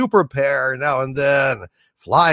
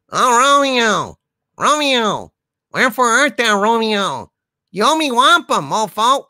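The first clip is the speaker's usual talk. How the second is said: falsetto Juliet; 8 semitones higher than usual. Acted. Sidekick as Juliet calling for Romeo, falsetto.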